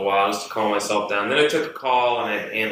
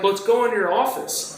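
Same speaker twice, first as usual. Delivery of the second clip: retold urgent demand; 11 semitones higher than usual. Re-enacts urging coworker aside.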